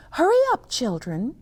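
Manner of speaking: teacher calling. Acted. Teacher hurries children to the magic show. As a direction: call the children along. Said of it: "the teacher said".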